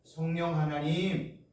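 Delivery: slow, devout calling of holy names; reverent calling. Shown as a demonstration. Pastor showing the congregation how to call on God, slow and reverent. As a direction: call each name slowly with reverence. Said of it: "부르실 때 어떻게 부르냐?".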